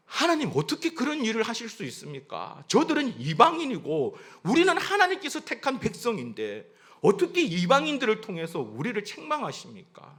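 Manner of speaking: mildly indignant protest; arguing with God. Acted. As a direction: argue your case before God. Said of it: "하나님 앞에 더 따집니다".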